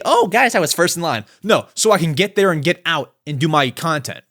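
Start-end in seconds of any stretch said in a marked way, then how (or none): 0.0-1.2 mock whiny quote. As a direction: poke fun at a line-cutter's excuse. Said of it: "Not to say".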